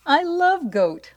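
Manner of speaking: high, slow, delighted squeal; squealing troll. Acted. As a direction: squeal it up high with greedy glee.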